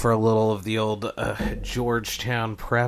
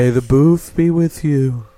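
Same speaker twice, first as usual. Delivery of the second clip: announcer voice; 3 semitones higher, 12 dB louder, slower than usual. Pretend. Mock announcer sign-off.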